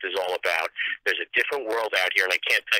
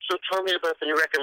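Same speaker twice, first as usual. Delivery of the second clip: mocking a boring host; 4 semitones higher, faster than usual. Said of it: "he talks like this".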